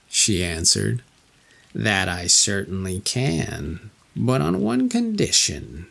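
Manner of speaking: a hint of an old witch, sly and bargaining; lightly voiced crone offering a deal. Witch bargaining with the lost king, lightly voiced.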